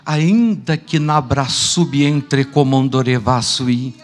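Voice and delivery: slow, loud solemn intoning; voice of God with tongues. Retold or imitated. Preacher voicing God speaking again amid the tumult, slow and loud. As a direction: proclaim it slowly and loudly as God speaking. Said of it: "Deus falou novamente".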